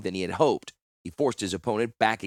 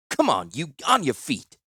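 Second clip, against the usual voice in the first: haul him up with a shout; rough command; 4 semitones higher than usual. Acted. Hauling up a prisoner.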